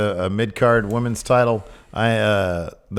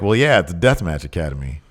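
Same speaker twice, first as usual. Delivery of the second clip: lower, deadpan retort; Mustafa impression; 6 semitones lower than usual. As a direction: shrug it off in a lower voice. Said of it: "And he's like".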